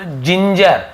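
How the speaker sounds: "जिंजर" starting with a j sound; soft g as j. Shown as a demonstration. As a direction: model "जिंजर" with j, as in jam. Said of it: "तो ज बन गया".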